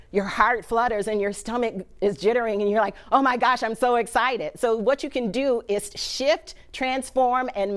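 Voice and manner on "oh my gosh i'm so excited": acted excited gush, higher and louder. Speaker acting out excitement to show fear's flip side, excited. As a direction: play someone bubbling over with excitement. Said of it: "when you're excited".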